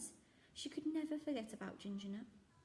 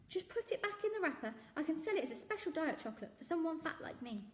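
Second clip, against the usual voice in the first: kindly shopkeeper; 8 semitones higher, 3 dB louder than usual. Acted. The speaker joking.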